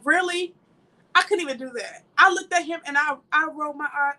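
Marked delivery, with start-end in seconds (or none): 0.0-0.5 mock disbelief. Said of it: "you know how you look at somebody like".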